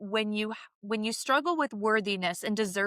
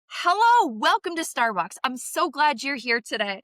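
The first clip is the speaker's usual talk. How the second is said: chipper barista; 4 semitones higher, 4 dB louder than usual. Retold or imitated. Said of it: "she's a little chipper".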